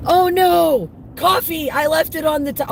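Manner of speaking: loud, high, fast dismay; sudden alarm. Real, not acted. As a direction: blurt it out as you realize. Realizes coffee left behind.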